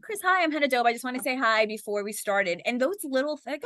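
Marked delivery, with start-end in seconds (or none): 0.0-2.6 high-pitched eager introduction; friendly greeting. Retold or imitated. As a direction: say hello brightly, pitched well up, as if re-enacting it. Re-enacting her greeting to Chris Evans.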